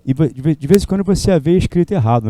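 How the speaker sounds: ordinary delivery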